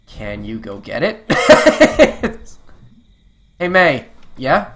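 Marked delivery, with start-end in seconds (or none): 1.3-2.9 high, loud cracking laugh; loud burst of laughter. Real, not acted. Player cracking up at Germ, laughing loudly.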